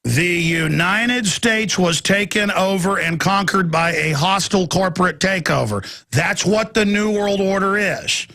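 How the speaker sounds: slow, each word laid down deliberately; slow, emphatic restatement; very slowly. Shown as a demonstration. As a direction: spell it out slowly so nobody misses it. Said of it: "I'm gonna say it again very slowly".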